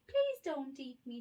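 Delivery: squeaky mouse. A narrator's reading. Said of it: "squeaked the mouse".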